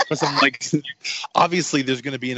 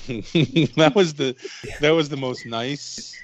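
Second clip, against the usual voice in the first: slow imitation; much slower than usual. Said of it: "he was like".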